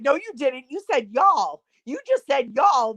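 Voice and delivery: teasing accusation. Retold or imitated. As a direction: imitate friends calling out a slip. Friends teasing, retold.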